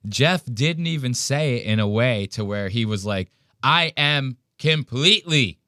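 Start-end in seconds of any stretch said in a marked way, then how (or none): 3.6-5.6 mock cold confession. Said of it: "this is how he's making it sound".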